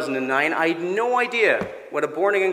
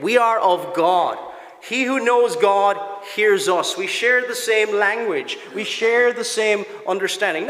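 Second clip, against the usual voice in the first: forceful preaching; 6 semitones higher, 4 dB louder than usual. Acted. Pastor to congregation about God hearing them, full force preaching. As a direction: preach it out to the whole church.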